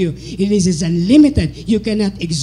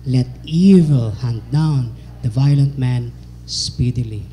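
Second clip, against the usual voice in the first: many voices in unison; 4 semitones lower than usual. Acted.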